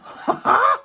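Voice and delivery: high, bright burst of laughter; high giggle. Real, not acted. Crafter laughing at her own first try. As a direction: giggle at yourself.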